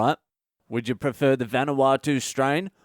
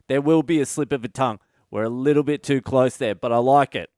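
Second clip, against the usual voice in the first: mock boss enthusiasm. Boss responds to brainstorm.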